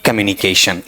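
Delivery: कम्युनिकेशन low, opening on a weak "kuh"; unstressed first syllable. Shown as a demonstration. Teacher showing what unstressing produces, unstressed first syllable. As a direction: reduce the start of कम्युनिकेशन to "kuh-myu". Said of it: "यहां से unstressed बनाना चाहूं".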